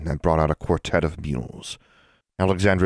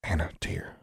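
soft, hushed appeal; whispered; 10 dB quieter than usual. A narrator's reading. Friend trying to calm Anna, whispered. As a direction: drop it much softer. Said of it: "Forbearance whispered".

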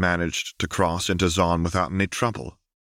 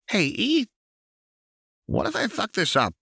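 much higher, anxious question; nervous Jinx. A narrator's reading. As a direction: fret to a friend before a big moment.

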